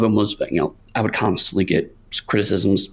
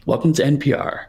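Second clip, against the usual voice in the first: public radio host; 5 semitones higher than usual. Pretend. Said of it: "this is definitely your public radio voice".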